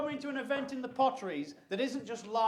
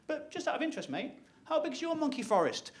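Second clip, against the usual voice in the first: softer, offhand aside; feigned casual; 4 semitones higher, 5 dB quieter than usual. Acted. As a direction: slip it in as an innocent question. Feigned casual question to Londoner.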